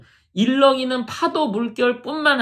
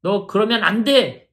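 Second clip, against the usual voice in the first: mildly indignant scolding, as if challenged; mock scolding. Preacher imitating a Jesus who scolds Peter for doubting, mild mock scolding. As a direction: act out a touch of offended authority. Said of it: "이렇게 혼내는 게 아니라요".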